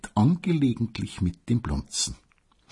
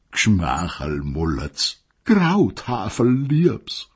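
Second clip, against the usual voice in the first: lightly voiced coarse pet names; slower than usual. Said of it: "seiner derben Kosenamen".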